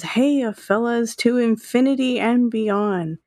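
a hint of Buzz's bold hero voice; Buzz impression. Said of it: "In an impression of Buzz".

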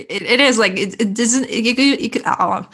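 tripping over words in real excitement; excited stutter. Real, not acted. Host so excited she stumbles over her words, excited stutter. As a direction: stumble and restart, too eager to finish. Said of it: "I just start to stutter when I'm so excited".

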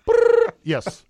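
trilled phone ring, high mock-Chinese answer; mock Chinese accent. Host faking a call to China, mock Chinese accent. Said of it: "Can I do a Chinese accent".

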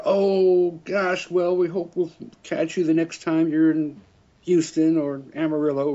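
cheerful Texas fan, bright and loud; Texan lady. Retold or imitated. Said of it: "heavy Texan accent".

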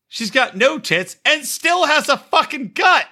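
high, slow, incredulous mockery; mocking disbelief. Real, not acted. Co-host mocking the surgery result, high and slow. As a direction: draw it out as if you can't believe it.

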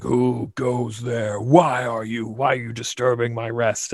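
slow, looming dragon challenging intruders; a touch of a menacing dragon. Retold or imitated. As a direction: play the dragon as a lightly voiced beast roused from sleep. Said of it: "I put on my dragon voice".

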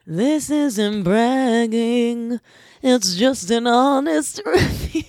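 drawn-out, mock-solemn restatement; slow deliberate repeat. Shown as a demonstration. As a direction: spell it out slowly with a grin. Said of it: "And like I said".

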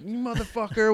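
high, imitated neighbor's cursing; mock angry insult. Stuck neighbor curses back at the teller, imitated angry insult.

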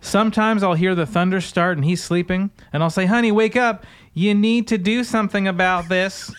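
wife urging her husband, mock preacher voice; mock preacher woman. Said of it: "That's how she says it".

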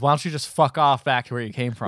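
acted-out angry dismissal; retold anger. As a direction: tell him off in a retelling, not full fury. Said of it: "he got real mad and says".

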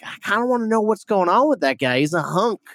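a hint of a smitten schoolgirl voice; lightly voiced dreamy girl. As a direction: play the girl, half-mocking her crush. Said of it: "she didn't say that".

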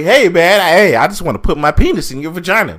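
lightly voiced creep, quick and eager; mock sleazy pickup line. At a party, a creep approaching a woman, mock sleazy and quick. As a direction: play a sleazy partygoer hitting on her, quickly.

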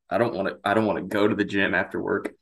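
water down the wrong pipe; choking a little on water; coughing up water. Real, not acted. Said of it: "my water went down the wrong pipe".

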